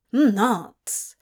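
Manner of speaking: short grumbled contradiction; mild grumble. A narrator's reading. Demon contradicts the apologetic angel, grumbling. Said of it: "Crawley grumbled".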